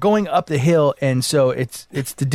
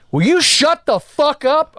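higher, slow angry demand; mock yell, higher and drawn out; retold yell; 10 semitones higher, slower than usual. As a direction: hammer out each word at him. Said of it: "I said".

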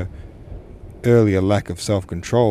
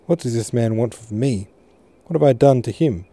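rising to a distressed cry; 3 semitones higher, 3 dB louder than usual. Acted. Daughter pleading with her parents, distressed and rising. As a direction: plead as if wronged and near tears. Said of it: "her voice full of distress".

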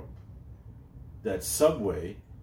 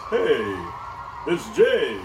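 lightly hammed-up actor's greeting, lifting on the name; put-on performer's hello; acting voice; 2 semitones higher, 5 dB louder, much slower than usual. Shown as a demonstration. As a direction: announce yourself with a touch of showbiz. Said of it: "that's my, uh, acting voice".

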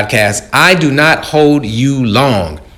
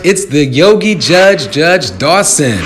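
town crier; 5 semitones higher than usual. Acted. Podcast opening proclamation.

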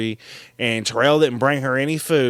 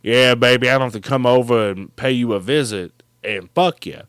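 Silk; 5 semitones lower than usual. Retold or imitated. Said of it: "Silk's like".

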